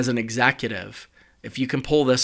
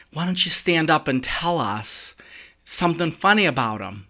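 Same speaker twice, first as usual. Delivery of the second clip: higher, lightly voiced chuckling speaker; chuckling eulogist; 4 semitones higher than usual. Eulogist teasing the laughing mourner, higher chuckling voice. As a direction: tease her gently like a jovial clown. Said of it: "chuckles the clown".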